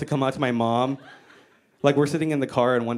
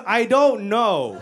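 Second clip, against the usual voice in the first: imitated mom; 5 semitones higher, much slower than usual. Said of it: "And she goes".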